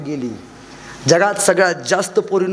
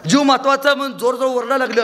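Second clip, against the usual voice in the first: panicked yell; 6 semitones higher than usual. Acted. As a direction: yell for your life. Man screaming in tiger cage.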